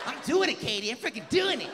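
straining white guy. Retold or imitated. The guy answering Katie, high mock strain. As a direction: push it out like an overeager guy.

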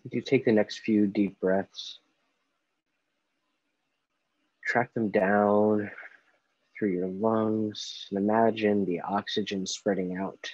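slow, unhurried meditation guide with long pauses; guided meditation. Acted. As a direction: ease them gently through each breath, leaving space between phrases. Leads a guided breathing meditation.

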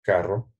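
Carro with a rolled double R, rising at the end; trilled Carro. Shown as a demonstration. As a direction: roll the RR of Carro clearly. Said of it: "Say carro en español". (Carro con erre vibrante)

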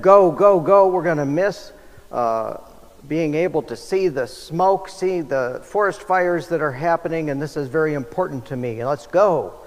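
impatient passenger urging go go go; urgent hurry. Acted. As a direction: rush the pilot, keep pushing. Impatient photographer urges the pilot.

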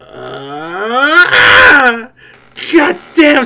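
loud startled cry then swear; real loud exclamation; loud outcry. Real, not acted. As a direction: blurt it out in shock. Reacting to game scene.

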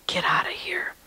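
breathy whisper, barely voiced; hushed disbelief. Sister to brother who says he cried, whispered disbelief.

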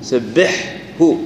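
سبحه very slow, the هاء after the حاء kept distinct; سبحه بحاء ثم هاء ظاهرة; clear ha after ha. Shown as a demonstration. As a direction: separate the ha from the ḥa in سبحه, slowly. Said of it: "مثلًا سبحه".

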